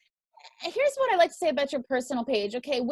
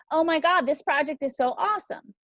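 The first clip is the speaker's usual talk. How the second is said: loud, over-the-top excitement; gushing hype; 3 semitones higher, 3 dB louder than usual. Retold or imitated. Host mocking overhyped posts, loud gushing. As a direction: rave like a hyped fan.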